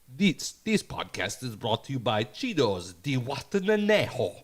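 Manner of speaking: mock ad read in a thick Latino accent; imitated thick Latino accent. Imitating the podcast's Cheetos sponsor read, thick Latino accent. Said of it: "they talk with a real thick, like, uh, accent".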